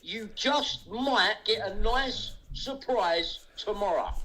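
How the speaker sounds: drawn-out, taunting menace, leaning on just; slow teasing threat. Real, not acted. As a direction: savour each word like a promised threat. Repeats teasing threat slowly.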